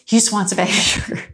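repeated with a laugh breaking through; half-laughing at the bribe. Retold or imitated. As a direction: say it again, chuckling at the absurdity. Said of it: "You know, like, just".

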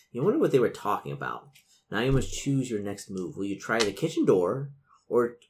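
measured gamebook read-aloud; game master narration. A narrator's reading. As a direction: set the scene for the players. Game master reads scene.

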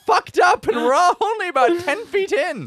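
high, loud, shouting; character voice. Acted. Warrior complaining to Drexel, high and loud shout. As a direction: grumble at the dungeon in character.

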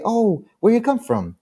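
high, keen small talk; imitating your own eager question; friendly eagerness. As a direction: ask it high, trying to make friends. Retells own friendly question to rival.

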